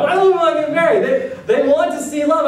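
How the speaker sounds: high, fast, laughing read-out; amused, breaking into laughter. Real, not acted. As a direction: laugh through the question as you read it. Laughing while reading Google result.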